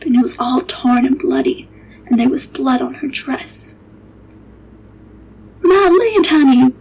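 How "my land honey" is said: high, startled cry, slowing on the question. Acted. Servant girl finding a strange child, startled and higher. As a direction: gasp it out in surprise. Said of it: "I says".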